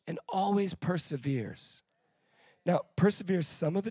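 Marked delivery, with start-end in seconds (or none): 0.1-1.8 slow and softer, pulled right back; quiet contrast. Acted. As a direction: bring it down to a hush. Drops to quiet after shouting.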